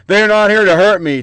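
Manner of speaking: "me" leaned on a little harder; stress on me. Retold or imitated. Host quoting Trump, light stress on me. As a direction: push the word "me" in the quote. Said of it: "The emphasis on the word me".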